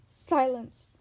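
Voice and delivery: loud, sharp snarled command. A narrator's reading. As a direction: snap her to silence. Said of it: "Medusa snarled".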